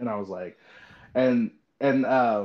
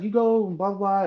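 high-pitched encouragement; cheering aunt; 8 semitones higher than usual. Retold or imitated. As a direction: imitate an aunt egging you on, pitched up. Retelling aunt's cheering comments.

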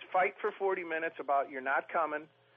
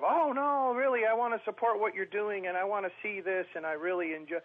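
mock girlfriend; 3 semitones higher than usual. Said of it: "they give you that bullshit of".

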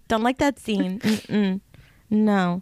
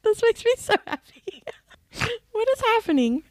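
much higher, squealing with joy; delighted squeal; 10 semitones higher, slower than usual. Real, not acted. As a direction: squeal it, overjoyed. Overjoyed squeal at the narrator bit.

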